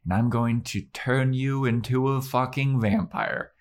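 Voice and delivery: slightly high put-on voice; lightly voiced vampire seductress; affected, theatrical promise; Drusilla impression. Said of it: "And she's like".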